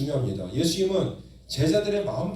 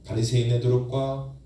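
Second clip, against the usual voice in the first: model prayer; 2 semitones lower than usual. Shown as a demonstration. Preacher leading the congregation in prayer, building fervently. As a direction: pray it out with growing insistence. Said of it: "이렇게 기도해 보십시오".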